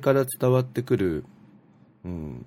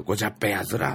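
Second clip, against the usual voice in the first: ごじゃっぺやつら said carefully in Ibaraki dialect, rising on ら; Ibaraki dialect explained; much faster than usual. Shown as a demonstration. Explaining to listeners the Ibaraki dialect version, ごじゃっぺやつら. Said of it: "それ茨城弁にすると".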